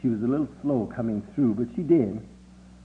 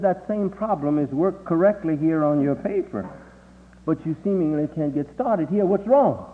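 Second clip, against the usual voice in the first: questioning father; 5 semitones higher than usual. Retold or imitated. Father questions his son.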